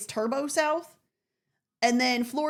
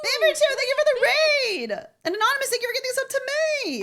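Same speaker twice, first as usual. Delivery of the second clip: higher, louder bubbly shout-out; excited thanks; 13 semitones higher, 4 dB louder than usual. Real, not acted. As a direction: greet the raiders with a burst of glee. Thanking raiders on stream.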